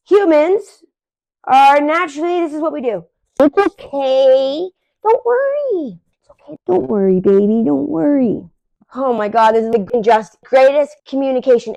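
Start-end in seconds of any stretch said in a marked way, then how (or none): 3.4-8.5 put-on soothing baby talk. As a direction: coo it like calming a scared baby. Owner soothing scared dog, acted.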